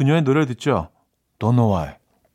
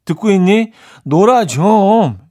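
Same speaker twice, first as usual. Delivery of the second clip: drawn-out, rising maternal nagging; nagging mother; 4 semitones higher, 5 dB louder than usual. Acted. Mother scolding a studious child to go play, nagging. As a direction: nag louder and higher with each plea. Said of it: "이 엄마에게 매일 잔소리 들었던".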